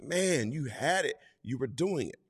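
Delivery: lightly voiced kind reassurance; gentle Jesus. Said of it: "It's like".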